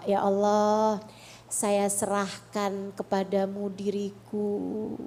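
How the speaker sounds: slow, measured supplication; gentle night-prayer voice, unhurried; prayer of surrender. Acted. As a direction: hand it all to God in prayer.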